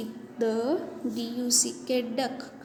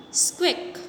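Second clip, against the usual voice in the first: rat squeak; 5 semitones higher than usual. Shown as a demonstration. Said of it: "What is the sound of rat?".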